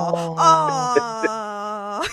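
laughing and tearing up; a moved, teary laugh; touched laugh. Real, not acted. Touched, laughing at kind words.

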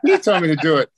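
mock high-pitched snitch. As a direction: mimic a little guy's high whine, pushed. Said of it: "he had this high-pitched voice".

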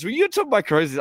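high, incredulous mock panic; high-pitched retold alarm; freaking out. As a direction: imitate someone freaking out in disbelief. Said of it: "starts freaking out".

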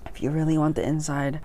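drops to a hushed whisper; whisper in left ear. Shown as a demonstration. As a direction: lean in and whisper it. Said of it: "we call it".

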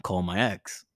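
low mock-drunk mumble; low, half-conscious plea, imitated; drunken request. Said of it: "I'm like".

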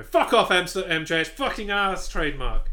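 hammed-up angry outburst; mock outrage. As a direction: swear loudly in playful indignation.

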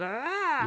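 high mock scream; high-pitched "ah", lightly imitated; imitated yell. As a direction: mimic their odd wordless yell. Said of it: "it was just their own brand of".

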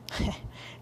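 short breath of laughter; soft snicker at own joke; chuckle. Acted. Dog amused by the cat's sweater, snickering softly.

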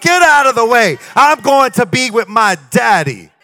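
bold shout. Acted. Child bursting into father's office.

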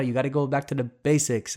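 a light Italian accent imitating dad, back to basics. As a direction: playfully voice an Italian father with a hint of accent. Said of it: "Italian voice".

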